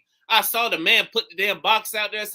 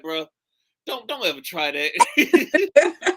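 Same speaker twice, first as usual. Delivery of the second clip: laughing mock warning, drawn out slowly; mock scolding; 4 dB louder, much slower than usual. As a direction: scold a friend while cracking up. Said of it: "I had to look at him like".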